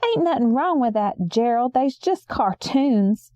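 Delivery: a hint of a soft whine, slowing at the end; soft whiny voice. Aunt Sarah timidly pleading with Gerald, a hint of a whine. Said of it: "in a soft, whiny voice".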